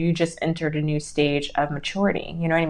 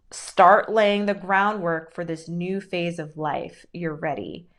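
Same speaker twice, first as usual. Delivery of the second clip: slow, deliberate reading. Shown as a demonstration. Reading the card to the viewer, slow and deliberate. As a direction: read each word slowly and weightily. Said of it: "this message is perfect".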